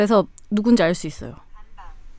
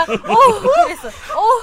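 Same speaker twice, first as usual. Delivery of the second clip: imitating producer; 11 semitones higher, 3 dB louder, much slower than usual. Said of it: "주희 피디가".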